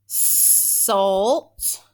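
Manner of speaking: SALT drawn out with a long S and a released T; SALT said slowly as a lone syllable; stretched syllable. Shown as a demonstration. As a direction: stretch each sound of SALT, rising. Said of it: "is my second syllable".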